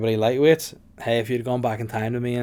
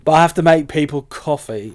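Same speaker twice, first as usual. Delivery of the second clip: louder, higher mock protest; mock indignant; 4 semitones higher, 9 dB louder than usual. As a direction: protest loudly, playing the boyfriend. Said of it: "act this scene".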